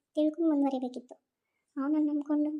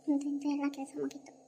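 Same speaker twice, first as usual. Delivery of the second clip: relieved whisper, softer; whisper to herself; 7 dB quieter than usual. Acted. Tired woman whispering to herself that the chores are done. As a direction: breathe it out to yourself as the work ends.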